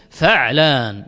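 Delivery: فعلان as fa'-laan, the ع closed; sukun on the ayn. Shown as a demonstration. Teacher restating the pattern, فعلان said "fa'-laan". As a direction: hold فعلان to two syllables, no vowel on the ع. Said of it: "بسكون العين".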